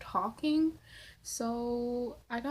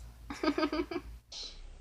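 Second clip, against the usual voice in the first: laugh; 4 semitones higher, 5 dB quieter than usual. Real, not acted. Laughs after reading question.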